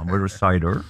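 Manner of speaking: low, soft West Country burr, lightly done; a mild West Country yokel voice; West Country accent. Shown as a demonstration. Pundit tries West Country accent for host, low and soft. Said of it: "can I do West Country then?".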